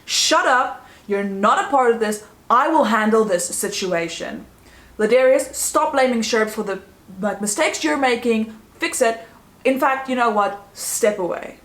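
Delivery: hammed-up coach snapping at the team; retold outburst. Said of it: "Monica loses it".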